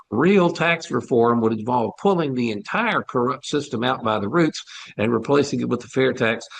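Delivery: breathless from a long rant; short of breath after talking nonstop. Real, not acted. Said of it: "I'm out of breath".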